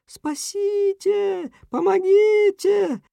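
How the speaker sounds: very high, slow, drawn-out cry for help; a tiny voice calling for help from far away; small trapped cat crying for help; thin helpless cry. A narrator's reading. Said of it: "Тонким беспомощным голоском".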